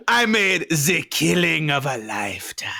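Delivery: whispered, menacing Bond villain line; sinister villain whisper. Pretend. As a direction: breathe it out like a creepy villain over haunting music. Menacing villain quote of George.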